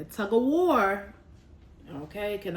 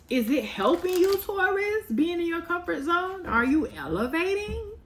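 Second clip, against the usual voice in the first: pointed challenge; 9 semitones higher, 5 dB louder than usual. Real, not acted. Challenging Taurus.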